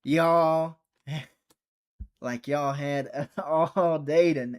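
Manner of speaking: laughing through a slow exasperated complaint; amused disbelief at late customers; chuckling mock outrage; laughing exasperation. Real, not acted.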